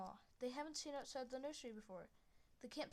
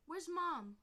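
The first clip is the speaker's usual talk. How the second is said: anxious; 7 semitones higher, 8 dB louder than usual. Acted. Kid asking for mother.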